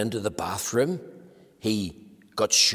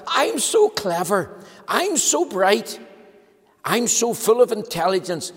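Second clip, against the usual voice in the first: slow, higher, smug self-praise; boastful Mister Clever; 7 semitones higher, 4 dB louder than usual. Acted. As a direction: savour every boast.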